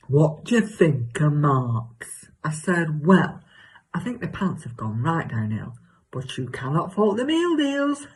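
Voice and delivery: hammed-up chatty gossip with leaping pitch; exaggerated comic self. Telling Cheryl about her new neighbour, exaggerated comic gossip. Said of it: "do an exaggerated version of myself".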